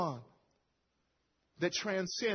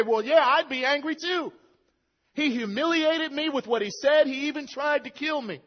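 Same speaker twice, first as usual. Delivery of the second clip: higher, louder indignant agreement; imagined listener; 7 semitones higher, 6 dB louder than usual. Pretend. Preacher voicing congregation member, mock indignant. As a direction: play a listener who sides with Jonathan. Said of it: "And you say".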